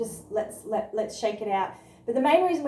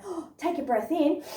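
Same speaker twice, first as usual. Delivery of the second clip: mock gasp; 5 semitones higher than usual. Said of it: "a lot of people say when you go".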